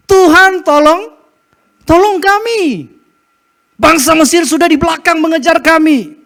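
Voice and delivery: high, loud frantic cry for help; panicked plea. Acted. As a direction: cry out as the enemy closes in. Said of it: "kalau mereka takut begitu, kemudian berteriak".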